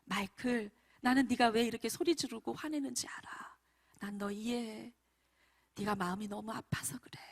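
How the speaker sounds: acted soothing talk to a child; mildly softened, comforting tone; gentle understanding. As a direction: reassure a hurting child, tenderly. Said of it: "이러면서 간단하게 말을 했어요".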